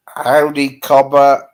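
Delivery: loud, hearty Australian greeting; Australian "cobber" greeting; Australian accent. Shown as a demonstration. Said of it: "your Australian accents".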